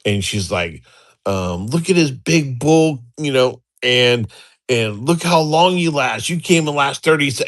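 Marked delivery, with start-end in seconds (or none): 1.7-7.4 imitating a taunting wife, higher pitch; mock degrading taunt. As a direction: lightly act out her belittling jeer. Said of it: "she's just degrading him like nothing".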